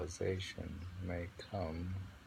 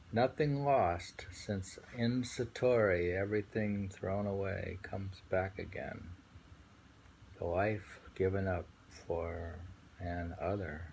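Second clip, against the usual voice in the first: poem reading. Acted. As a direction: savour each line of the poem. Reading a Zen poem aloud.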